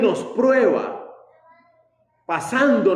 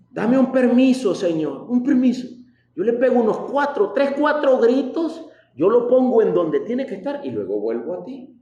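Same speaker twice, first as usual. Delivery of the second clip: higher, pushy pleading; mock begging; 5 semitones higher than usual. Believer begging God for permission to yell, mock pleading. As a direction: bargain with God for a pass. Mock plea to shout at son.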